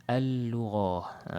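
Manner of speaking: "Al-Lughah" slow, one long doubled L; into second lam. Shown as a demonstration. Teacher introducing an example, "Al-Lughah" with held L. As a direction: hold the L through "Al-Lughah". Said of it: "kita masuk pada lam yang kedua".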